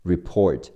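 teacher's model of report stressed on PORT; light re, stressed port in report; stress on second syllable. Shown as a demonstration. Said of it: "注意重音在p的前面".

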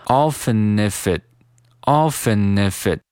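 "often if it" as "offe-ni-fit"; slowly chain "often if it" together; three words "often if it" as one; linked reading. Shown as a demonstration. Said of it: "进行连读".

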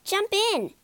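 high, cheerful invitation; with a grin. A narrator's reading. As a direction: say it through a grin. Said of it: "he said with a grin".

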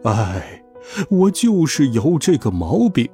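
tag. Acted. Magician admits his spell misfired.

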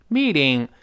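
meeting with a d-like T; "meeding" for meeting; voiced T in meeting. Shown as a demonstration. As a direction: soften the middle T of meeting. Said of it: "字母T得有浊化".

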